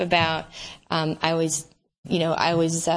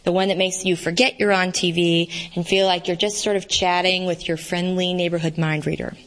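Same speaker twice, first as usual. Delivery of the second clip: reading her novel aloud; steady book reading voice; story narration; 3 semitones lower than usual. A narrator's reading. Author reads novel aloud.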